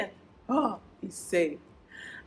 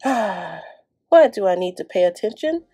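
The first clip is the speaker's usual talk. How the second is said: put-on lively, loud storybook kid voice; daydreaming boy; 9 dB louder than usual. Morton daydreams in the outfield, loud and lively. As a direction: play a bored boy dreaming of the jungle. Reading the book's character.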